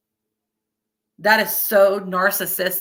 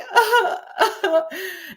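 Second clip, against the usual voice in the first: mock sob; 11 semitones higher than usual. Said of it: "I'm sitting there like".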